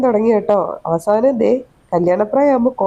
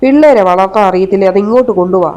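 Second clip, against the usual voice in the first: louder, sharp scolding; 2 semitones lower, 4 dB louder than usual. Acted. Mother-in-law scolding daughter-in-law over crying baby, louder and sharp. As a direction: tell her off for making the baby cry.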